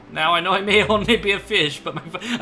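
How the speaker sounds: pseudo-Irish voice breaking into laughter; can't hold the fish voice for laughing; cracking up mid-accent. Real, not acted. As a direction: try the accent but laugh through it. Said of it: "I can't keep it up".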